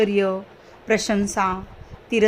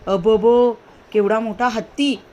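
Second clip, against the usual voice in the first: अबबो cried out louder, in awe; amazed cry; 4 dB louder than usual. Shown as a demonstration. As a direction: gasp at a huge elephant. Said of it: "आश्चर्य झालेला आहे".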